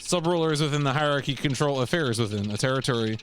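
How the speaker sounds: formal, measured briefing narration; mission briefing read. Acted. Player reading assassination orders aloud, formal briefing read. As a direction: read it out like official orders, pausing between phrases.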